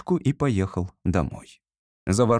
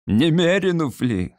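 slow, higher, near tears; tearful asking; 6 semitones higher, 3 dB louder than usual. A narrator's reading. Sleepless general begs his clerk at night, tearful. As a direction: plead it out in a crying voice. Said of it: "спросил он плачущим голосом".

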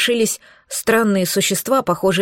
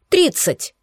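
higher, curt and final; curt cut-off; 8 semitones higher than usual. A narrator's reading. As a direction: snap the price back short. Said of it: "отрезала я". (резко, отрывисто)

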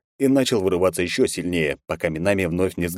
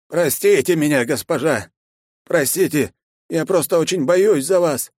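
raised, slow earnest apology; pleading old man; 10 semitones higher, 4 dB louder than usual. A narrator's reading. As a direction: servant begging forgiveness. Guard kneels and apologizes. (умоляюще)

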